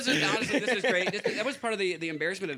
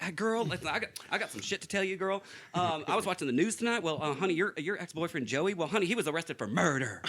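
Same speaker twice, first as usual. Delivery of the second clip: put-on dish the news to girl in a Southern accent; Charles, Southern accent; 2 semitones higher than usual. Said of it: "he had a southern accent".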